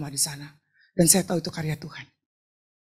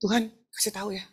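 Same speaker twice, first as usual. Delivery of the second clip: soft, hushed little prayer; quiet plea; 7 dB quieter than usual. Retold or imitated. Woman quietly asking God for the recipe, hushed. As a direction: ask God softly and simply. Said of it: "Saya ngomongnya kayak gini aja".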